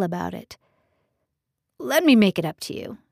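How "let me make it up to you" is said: pleading. Acted. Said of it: "he pleaded".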